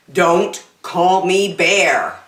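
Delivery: lively, sing-song storybook reading; animated read-aloud for little kids; reading to children. Acted. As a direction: read it like a bedtime picture book. Reads picture book to child.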